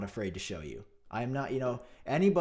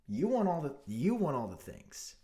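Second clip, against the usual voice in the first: annoyed repetition. Real, not acted. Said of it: "That is a phrase that triggers me".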